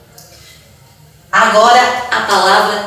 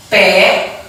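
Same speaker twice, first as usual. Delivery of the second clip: pedra with a long pause after pe; separated syllables. Shown as a demonstration. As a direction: stretch pe, wait, then say dra in pedra. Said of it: "Eu separei a palavra pedra".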